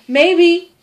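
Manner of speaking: high, drawn-out mock suffering; milk the deathbed act; feigned dying. Tom letting his brother fear the worst, feigned dying.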